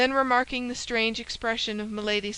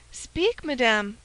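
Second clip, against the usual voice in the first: energetic urging; 4 dB louder, slower than usual. Acted. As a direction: demand it with sudden energy. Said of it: "with an energy of which".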